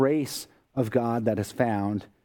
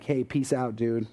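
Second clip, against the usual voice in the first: offhand, slightly low and casual; casual throwaway greeting; 3 semitones lower than usual. Pretend. Preacher mimics how we say peace as a greeting, casual. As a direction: toss it off like a laid-back hello. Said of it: "We just say it like that".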